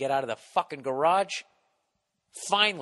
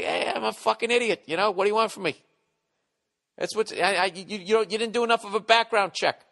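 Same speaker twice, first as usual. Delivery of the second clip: hammed-up self-mockery; 8 semitones higher, 4 dB louder than usual. Imagined sheepish self-mockery, loud.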